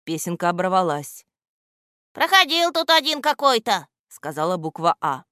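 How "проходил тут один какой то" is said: letter A. A narrator's reading. Letter A answers.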